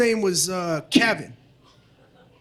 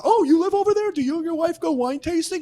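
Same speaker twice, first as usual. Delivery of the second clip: mock eager question; 5 semitones higher than usual. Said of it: "he's like".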